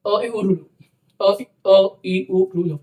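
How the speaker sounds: अ, ई, उ, रु, लु each said short, in one quick beat; short vowels demo. Shown as a demonstration. Teacher to students: short vowel demo. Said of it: "बोल के देखिएगा".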